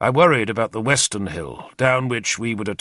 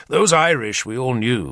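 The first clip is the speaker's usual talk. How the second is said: ordinary delivery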